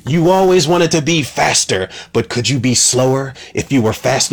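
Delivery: a mild take on a cold manipulator; mocking Cypher voice. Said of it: "she's like".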